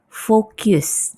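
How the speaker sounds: focus said as "fokius", falling; wrong pronunciation. Shown as a demonstration. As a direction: show the common mistake in focus. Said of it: "orang salah menyebut".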